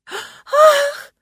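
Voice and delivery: очень высокий громкий наигранный вздох; ахни напоказ; демонстративный ах. Acted. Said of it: "Она демонстративно закрыла лицо руками". (театральный громкий ах)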